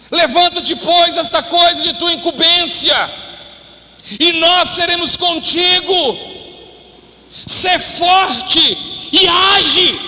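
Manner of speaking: slow preached charge, shouting Sê forte e age; forceful scripture exhortation. Acted. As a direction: hammer the verse home as a rallying cry. Verse repeated with more force.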